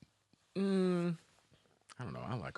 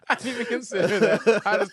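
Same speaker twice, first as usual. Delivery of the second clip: high, loud, laughing through the words; 9 semitones higher, 8 dB louder than usual. Real, not acted. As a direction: say it again, cracking up.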